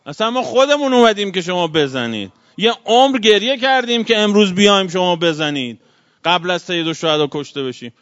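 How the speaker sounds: defiant battle cry. Retold or imitated. Abis challenging the enemy army, loud defiant cry. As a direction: shout it like a warrior daring them.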